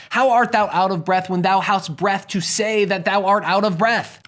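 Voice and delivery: high-pitched indignant protest; acted impatient teenager pleading her case; exasperated Juliet. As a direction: argue back in one insistent high run. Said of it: "positively dying for her to return".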